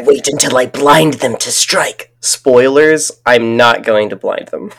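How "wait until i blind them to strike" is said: a hint of a cold assassin; lightly voiced Viper line. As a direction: say it like a game villain. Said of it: "I can do one".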